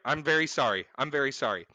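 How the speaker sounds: low, soft sarcastic sorry; mock apology. Real, not acted. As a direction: apologize flatly, dripping sarcasm.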